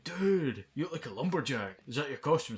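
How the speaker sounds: lightly voiced drunk partygoer; imitating drunk kid. Drunk kid falling on him asks about his costume. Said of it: "he was like".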